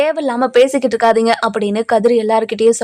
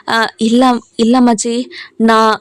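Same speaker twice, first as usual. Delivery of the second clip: nervous stammer; slower than usual. Retold or imitated. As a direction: stumble over the words as if caught out. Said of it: "அப்படியே பதட்டமா பேசுவோம்". (லேசான பதட்டத்துடன் தடுமாறி பேசுவது)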